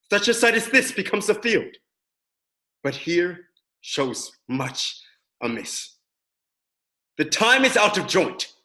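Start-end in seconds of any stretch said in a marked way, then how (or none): 2.8-5.9 slow, hushed. Acted. Fortinbras grieving over the dead.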